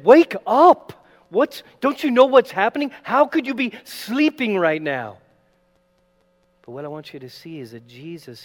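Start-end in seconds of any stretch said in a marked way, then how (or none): 0.0-5.2 loud, high frantic shout that fades down; panicked shout. Acted. Fearful disciples shouting at sleeping Jesus, panicked. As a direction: yell at him to wake up, terrified. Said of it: "So gripped with fear, they're saying".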